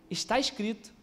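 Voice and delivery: softly voiced devil, understated; diabo. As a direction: quote scripture quietly as the tempter. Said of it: "Aí o diabo falou assim". (diabo imitado, em voz baixa)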